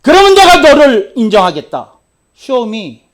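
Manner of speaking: loud, high demand to prove it; forceful preacher's challenge; challenging shout. Retold or imitated. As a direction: dare him to prove himself. Retold challenge.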